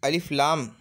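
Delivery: अलिफ लाम said slowly and clearly; Arabic letters named. Shown as a demonstration. Teacher naming Arabic letters, clearly. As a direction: spell out the letters for students. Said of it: "अरबी ज़बान में".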